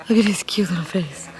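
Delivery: quick adoring whisper. Real, not acted. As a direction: whisper it fast and fond. Whispering over puppy.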